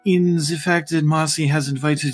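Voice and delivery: a lightly voiced, prim fae, reeling off guest rights; brisk and airy, waving off the formalities; haughty fae host. Fae Francesca bargaining.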